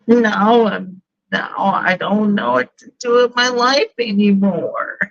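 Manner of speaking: a hint of a ditzy single woman; lightly voiced city woman. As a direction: play a lost city girl, lightly. Plays Laura character monologue.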